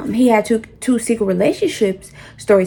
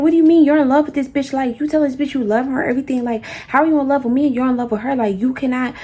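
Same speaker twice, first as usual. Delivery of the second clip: going off; 2 semitones higher, faster than usual. Retold or imitated. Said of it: "I'm going off 'cause I'm irritated".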